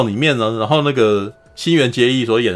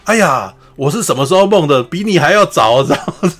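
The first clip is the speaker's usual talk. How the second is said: louder, raised boastful one-up; competitive wife; 3 semitones higher, 3 dB louder than usual. Retold or imitated. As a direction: boast she dreamed first. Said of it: "政子就说". (政子得意地抢先说)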